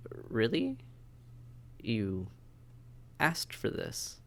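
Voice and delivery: a sharp disbelieving rise on really, then a slow breathy you asked for this; can't believe what she's hearing; incredulous surprise. Acted. Applicant wanted to be turned.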